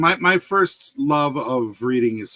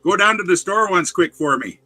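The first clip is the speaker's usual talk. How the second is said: lightly voiced Yooper expression; everyday Yooper lilt; Yooper accent; 2 semitones higher than usual. Shown as a demonstration. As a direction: demonstrate a Yooper saying. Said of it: "that's a real expression from up there".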